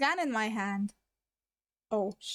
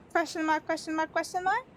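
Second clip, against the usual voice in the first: tag; 5 semitones higher than usual. Pretend. Reads punctuation aloud as confused reaction.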